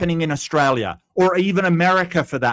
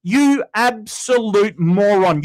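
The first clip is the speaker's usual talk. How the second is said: angry insult; 3 semitones higher, 3 dB louder, slower than usual. Real, not acted. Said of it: "Sorry, rant over".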